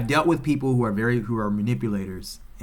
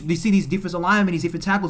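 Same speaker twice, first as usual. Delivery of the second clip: usual speaking voice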